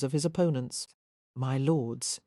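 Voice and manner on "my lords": put-on calm the drunken lords down gently; relaxed peacemaker placating two brawlers; reasonable tone. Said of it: "he was saying in a reasonable tone".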